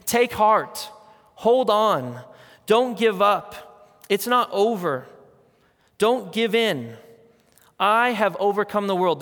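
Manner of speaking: firm, rousing, slow on don't give up; rally a struggling friend; urgent exhortation. Retold or imitated. Jesus urging his followers on, firm and rousing. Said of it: "I think he's actually saying".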